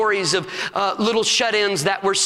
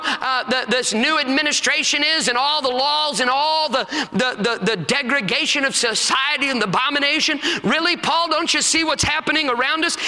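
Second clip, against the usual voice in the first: mock protest; 5 semitones higher than usual. Voicing doubters arguing with Paul.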